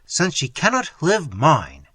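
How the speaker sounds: loud, slow lover's cry; a grieving lover, slow and loud; cried out. Acted. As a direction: drag it out in passion. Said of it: "he cried".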